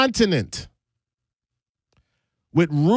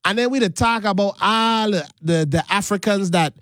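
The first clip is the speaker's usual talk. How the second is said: Virgin Islands Caribbean lilt; island speech of the Virgin Islands; Virgin Islands accent. Shown as a demonstration. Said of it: "because I talk like this".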